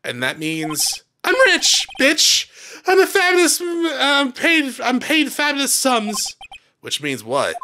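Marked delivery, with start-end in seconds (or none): 1.2-2.5 sassy boast. Pretend. Max boasting, punchline. 2.9-6.4 high, preening flamboyant star; slow, self-satisfied showman; diva voice. Pretend. Voicing Max.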